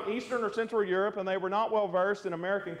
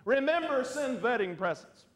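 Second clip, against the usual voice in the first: put-on thick Eastern European accent; 3 semitones higher than usual. Joke teller repeats the punchline, Eastern European accent. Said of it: "In his thick Eastern European accent".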